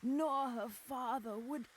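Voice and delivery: storyteller swept up in grief; anguished lament. Acted. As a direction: cry the lines out in despair. Narrating Lily's despairing cries.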